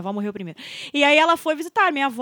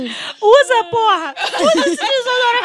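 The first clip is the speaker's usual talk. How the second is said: loud, higher mock scolding; exasperated mother; 6 semitones higher, 4 dB louder, slower than usual. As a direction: order your kid about, fed up and loud. Voices exasperated mother ordering deodorant use.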